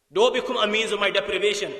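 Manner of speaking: impassioned acted appeal; emphatic plea. Heart's plea repeated with force.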